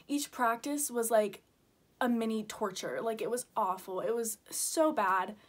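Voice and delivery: trembling, holding back tears; shaky voice. Real, not acted. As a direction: voice shaking with upset. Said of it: "I'm sorry my voice is shaking".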